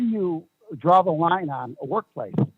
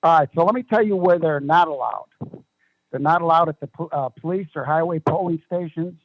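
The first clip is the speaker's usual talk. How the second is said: speaking up; 3 dB louder than usual. Real, not acted. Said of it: "speak up just a little bit".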